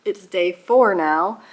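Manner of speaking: it's day four now, four stretched slow and rising; slow and deliberate, leaning on four; stress on four. Shown as a demonstration. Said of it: "I almost forgot".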